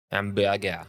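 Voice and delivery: mock French accent on one word; fake French accent. Guest mimics the host at French border control, fake French accent. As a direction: imitate a bad French speaker. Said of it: "fake French accent to".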